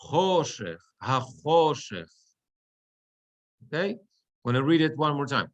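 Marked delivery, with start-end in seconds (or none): 0.0-2.1 "Choshech, hachoshech" stressed on "cho". Shown as a demonstration. Teacher showing the meteg on the chet, "cho" stressed in "Choshech, hachoshech". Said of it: "the meteg is on the chet".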